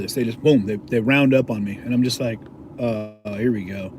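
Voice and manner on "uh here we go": resigned aside. Retold or imitated. Retold resignation when circled.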